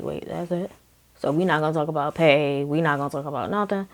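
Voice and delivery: wait, that's it? under your breath; quiet disbelief. Retold or imitated. Surprised no pay discussed.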